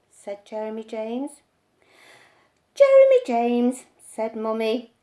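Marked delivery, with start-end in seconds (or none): 2.7-3.8 much louder calling of the name; mother scolding her son, much louder; stern call. A narrator's reading.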